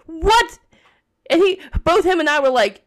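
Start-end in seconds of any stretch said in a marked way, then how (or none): 0.1-0.6 high loud disbelieving what; as if it can't be true; stunned by the hygienist's question; shocked what. Retold or imitated.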